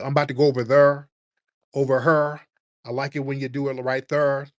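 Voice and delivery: mock Memphis accent, rolling a hard R into "there" and "her". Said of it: "she talk with that hard R".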